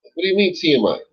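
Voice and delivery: high, bewildered mock outrage; a retold squawk of disbelief; incredulous retort. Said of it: "I'm like".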